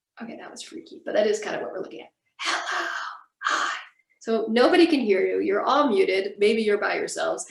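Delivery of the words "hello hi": whispered, projected loud enough to carry. Teaching actors to whisper to a fellow actor across the stage: stage whisper. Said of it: "a stage whisper to your fellow actor".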